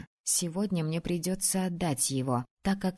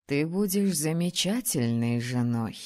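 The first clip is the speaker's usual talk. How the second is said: low, calm she-dragon voice; 5 semitones lower than usual. Acted. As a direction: speak as a wise old dragoness. Dragon Frida speaks.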